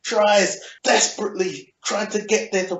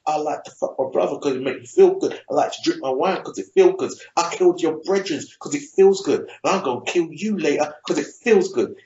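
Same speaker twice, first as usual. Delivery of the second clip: mock confession; faster than usual. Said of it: "starts confessing".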